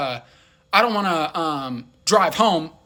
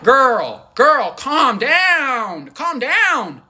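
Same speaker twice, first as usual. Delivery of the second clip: calming her down; 6 semitones higher, 5 dB louder, much slower than usual. Retold or imitated. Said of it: "I'm like".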